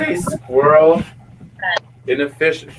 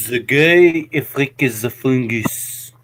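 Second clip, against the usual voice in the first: mock French accent. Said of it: "that's not French enough".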